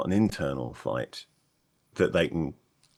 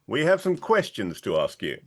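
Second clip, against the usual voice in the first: projected a touch more than needed; slightly too loud; 4 semitones higher than usual. Acted. Merrick questions the blacksmith in his shop, slightly too loud. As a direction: raise the voice a little, higher in pitch. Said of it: "will say slightly louder than he really ought to".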